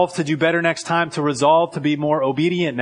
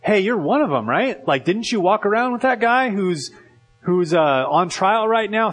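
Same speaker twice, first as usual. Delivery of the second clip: higher, needling accusation; accusing bystander; 6 semitones higher than usual. Retold or imitated. A girl to Peter, higher accusing question. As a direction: poke at him like a suspicious girl.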